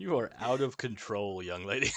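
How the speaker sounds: lightly voiced scolding parent; mock stern parent. Friend scolding co-host over movie obsession, lightly played stern parent.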